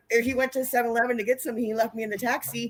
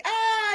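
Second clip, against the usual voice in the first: drawn-out high "ah"; mock high cry; 11 semitones higher than usual. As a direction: act out a distracting squeal. Acts out distracting the referee.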